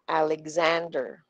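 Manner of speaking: Alexander with the third syllable, "zand", stressed. Shown as a demonstration. Teacher modelling the name for students, stress on "zand" in Alexander. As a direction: say Alexander leaning slowly on "zand". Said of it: "we say it louder and a little more slowly".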